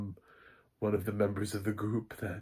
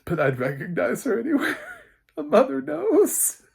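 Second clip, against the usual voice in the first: much higher, louder, fast hammed-up mom; mock proud mother; 8 dB louder than usual. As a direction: ham up the proud mother line. Joking as Carol about daughter.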